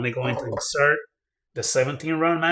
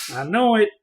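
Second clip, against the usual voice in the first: high, loud triumphant cry; proud gun reviewer cheering the result, high and loud; excited gloat; 9 semitones higher, 5 dB louder than usual. Real, not acted. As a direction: crow it out, thrilled. Gloating over trigger result.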